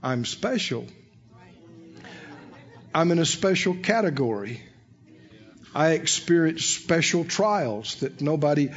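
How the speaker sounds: low, soft, self-absorbed confession; mock self-importance. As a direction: imitate someone solemnly claiming to be special. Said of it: "What you're trying to say is".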